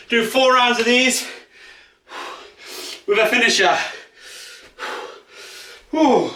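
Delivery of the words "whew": heavy exhale after exercise; breathless whew. Real, not acted. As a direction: blow out a winded whew. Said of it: "see, I'm out of breath".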